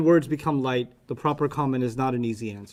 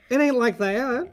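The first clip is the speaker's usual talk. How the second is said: mock Texan accent; 9 semitones higher, slower than usual. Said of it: "not a Texan accent at all".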